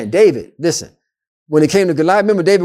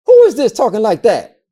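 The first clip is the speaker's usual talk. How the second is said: higher, affronted question; acted outrage with lifted pitch; indignant challenge; 5 semitones higher than usual. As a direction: demand to know who dares. Acts out David challenging Goliath.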